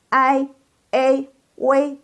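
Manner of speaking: I, A, W as ai, ei, wei, high and level; model diphthongs. Shown as a demonstration. Teacher models the second group of sounds, high and sustained. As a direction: hold each glide on a high level pitch. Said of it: "Yuk, baca".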